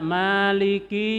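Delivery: Maliki said as if with a nasal tanwin ending; wrong tanwin reading. Shown as a demonstration. Teacher shows students the forbidden tanwin reading. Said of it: "jangan pakai tanwin".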